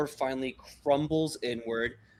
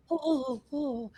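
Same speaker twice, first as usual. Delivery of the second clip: much higher, thrilled little oohs; excited kids; 12 semitones higher than usual. Acted. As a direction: kids bouncing in place with excitement. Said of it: "the other kids are like".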